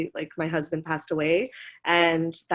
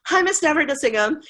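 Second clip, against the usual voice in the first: mangled name; 8 semitones higher, 3 dB louder, faster than usual. Retold or imitated.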